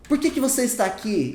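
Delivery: acted question. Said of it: "E eu respondo".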